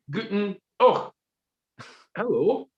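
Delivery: put-on high old crone voice; squeaky hag calling hello; crone greeting. Old crone greets young Gordon, high and creaky.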